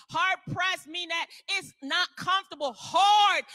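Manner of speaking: loud shouted preaching, hitting hard. Real, not acted. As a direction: drive the word home. Preaching at full force.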